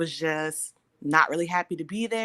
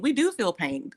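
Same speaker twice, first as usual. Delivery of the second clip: "do" lifted higher with emphasis; stress on "do"; 5 semitones higher, 3 dB louder than usual. Real, not acted. Speaker rebuts the myth about Black patients, firm stress on "do". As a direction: hit the word "do" to contradict. Corrects the false belief emphatically.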